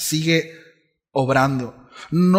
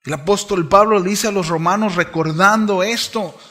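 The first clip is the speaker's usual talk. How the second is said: preaching at full force; 6 semitones higher, 6 dB louder than usual. Acted.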